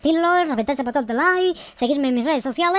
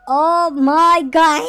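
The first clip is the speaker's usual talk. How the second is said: loud, very drawn-out cry of amazement; amazed exclamation; 2 semitones higher, 7 dB louder, much slower than usual. Real, not acted. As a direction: stretch it out in awe. Amazed at a find in game.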